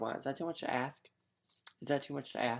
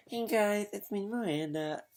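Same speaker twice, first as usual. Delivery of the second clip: a lightly voiced, higher chirpy greeting; Miranda; 7 semitones higher than usual. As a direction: pop in with a bright, sing-song hello. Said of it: "you guys probably don't recognize that reference".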